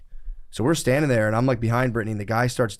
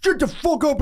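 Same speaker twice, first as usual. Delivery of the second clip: high yell, pitched way up; imitating a furious shout; 3 dB louder than usual. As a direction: mimic the stranger snapping back, high and loud. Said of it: "And he was like".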